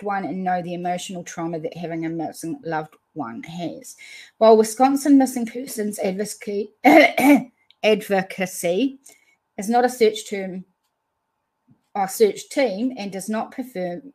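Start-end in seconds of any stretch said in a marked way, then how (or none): 4.4-10.6 tongue-tied, words slurring together; mouth mush. Real, not acted. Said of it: "I'm having mouth mush". 11.9-14.0 "does not prefer" slurred and tripped over, "perform" lost; mouth mush, garbled. Real, not acted. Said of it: "I'm having mouth mush".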